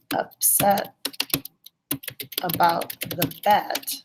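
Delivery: slow it down so the class catches the point; slow, pointed emphasis. Real, not acted. Teacher spells out key point.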